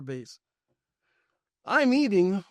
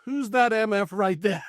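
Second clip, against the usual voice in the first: higher, emphatic excited demand; retold excitement; 4 semitones higher than usual. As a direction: act out an excited outburst. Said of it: "I was so excited".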